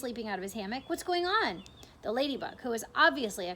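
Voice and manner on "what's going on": cried out. A narrator's reading. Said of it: "cried James".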